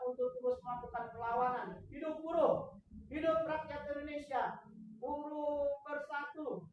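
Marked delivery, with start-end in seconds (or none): 1.9-6.7 fiery revolutionary speech. Real, not acted. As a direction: shout the slogans to the crowd. Union rally slogans after statement. (orasi berapi-api)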